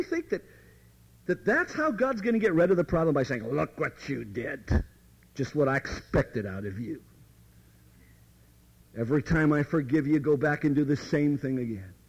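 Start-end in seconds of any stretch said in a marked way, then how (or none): 3.5-11.9 accusing devil. Retold or imitated. Devil scolding the fallen Christian, mock accusation. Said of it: "that's what the devil does".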